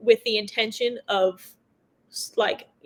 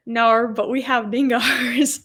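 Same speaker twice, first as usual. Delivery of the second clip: put-on Aussie accent; 4 dB louder, slower than usual. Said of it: "He said".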